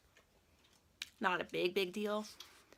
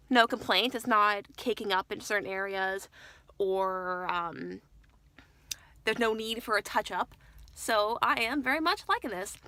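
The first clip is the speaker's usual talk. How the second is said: talking while chewing gum; 4 dB louder than usual. Real, not acted. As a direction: chew gum through the words. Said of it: "Sorry for the gum chewing".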